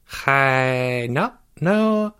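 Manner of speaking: high, stammering backpedal; squeaky, repeated no's; alarmed denial. A narrator's reading. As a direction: deny it in a fluster. Jeffrey panics at weapon talk.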